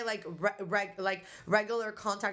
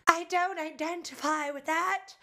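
mock offended person; 8 semitones higher than usual. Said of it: "Someone might be like".

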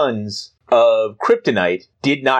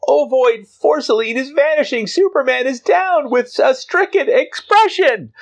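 panicked Perry White; 13 semitones higher than usual. Acted. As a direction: cry out in shrill alarm. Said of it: "Perry White's like".

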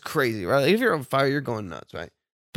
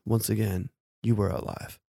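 dramatic narration; 4 semitones lower, 7 dB quieter than usual. Pretend. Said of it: "I don't like your audiobook narrative, voice right now".

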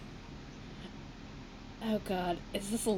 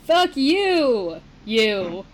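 dramatic shout; 5 dB louder, much slower than usual. Acted. Reading dramatic fanfic quote.

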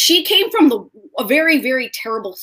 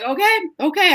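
higher voice, close to tears; ugly crying; 8 semitones higher than usual. Real, not acted. Woman retelling the butterfly moment, crying. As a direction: let the crying break through. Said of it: "ugly cry".

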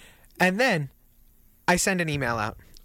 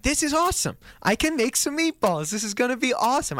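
excited; 7 semitones higher than usual. Retold or imitated. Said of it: "And I was like".

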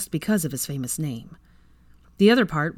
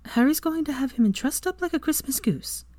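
whispered reassurance; 10 semitones higher than usual. A narrator's reading. Hermione reassuring Draco in bed.

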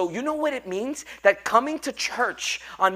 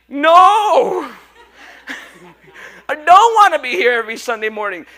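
whiny churchgoer; 3 semitones higher, 10 dB louder than usual. Retold or imitated. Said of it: "I'm like".

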